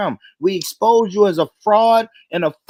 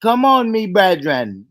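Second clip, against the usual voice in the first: Jamaican accent. Shown as a demonstration. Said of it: "your best Jamaican accent".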